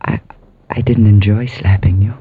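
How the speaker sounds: low, halting admission; hesitant apology. Acted. Niece admits regret over the slap, hesitant apology.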